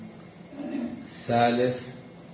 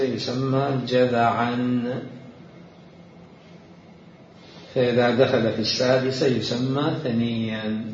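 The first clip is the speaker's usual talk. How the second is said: slow, deliberate classical Arabic reading; formal reading aloud; slower than usual. Real, not acted. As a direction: read each definition out with weight. Reads a book definition. (قراءة متأنية لنص بالفصحى)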